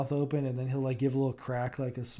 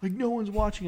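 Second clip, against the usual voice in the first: imitating wife; 7 semitones higher than usual. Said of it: "Kayla will be like".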